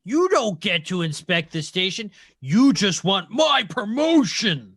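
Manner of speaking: hammed-up villain shouting his objection; indignant yell. Game master as Big Boy rebuffs fake supervisors, yelling. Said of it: "he just yelled".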